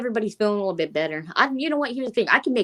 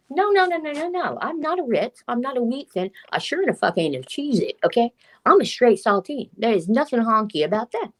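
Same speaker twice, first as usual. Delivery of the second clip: mock-indignant, higher-pitched protest; lightly hammed-up offended retort; indignant comeback; 6 semitones higher than usual. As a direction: set them straight with comic outrage. Acts out indignant comeback to insult.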